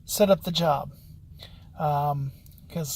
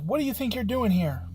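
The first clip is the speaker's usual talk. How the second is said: retold confrontation, pitched up; mock-indignant demand, higher voice; indignant challenge; 4 semitones higher than usual. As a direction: imitate a woman challenging an intruder. Hostile lady confronts the visitor.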